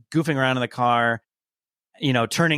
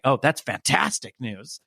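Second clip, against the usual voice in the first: laying it on thick. Retold or imitated. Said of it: "he just lays it on".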